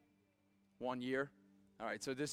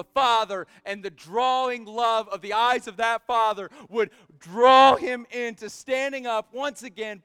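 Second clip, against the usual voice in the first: impassioned preaching; 6 semitones higher, 10 dB louder than usual. Real, not acted.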